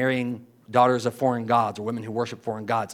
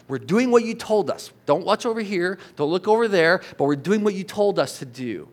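mock indignant protest, pitched higher; 6 semitones higher than usual. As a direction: plead your case as the wronged people. Acts out Israel's complaint to God.

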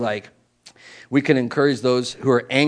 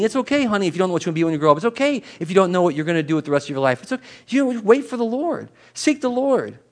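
reassuring; 5 semitones higher than usual. Acted. Reassuring someone who is waiting.

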